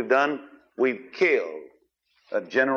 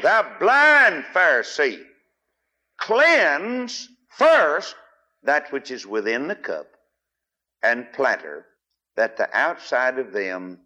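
preaching scripture reading; slower than usual. Acted. Preacher reads Jesus rebuking Pharisees, thundering then hushed.

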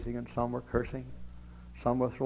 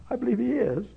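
louder; 12 semitones higher, 4 dB louder than usual. Acted. Soft then loud repeat.

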